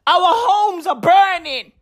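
desperate Californians shouting for help; pleading shout. Retold or imitated. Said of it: "They be like".

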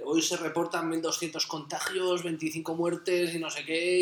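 news headline read. Retold or imitated. Podcaster mocking the daily COVID news alert, mock newsreader. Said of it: "La Vanguardia y te pone".

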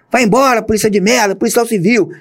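high, jeering mock yell from above; retold yelling. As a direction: jeer him off the premises. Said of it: "Os caras gritaram lá em cima". (vaia gritada em tom agudo)

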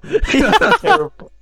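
high, slow, drawn-out groan of disgust; mock disgust. Co-host slowly jeers the bad accent, high and drawn out. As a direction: stretch it out in mock horror.

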